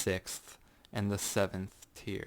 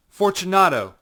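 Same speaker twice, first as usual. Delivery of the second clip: loud, much higher shout; calling out; 9 semitones higher, 14 dB louder than usual. Acted. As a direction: call his name into the dark. Calling into the niche.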